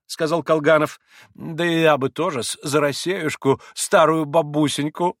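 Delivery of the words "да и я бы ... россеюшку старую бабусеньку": higher, wheedling little voice; a hint of a titter, ingratiating; giggly old toady. A narrator's reading. Maksimov asks to join the toast, lightly tittering. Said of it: "подхихикнул Максимов".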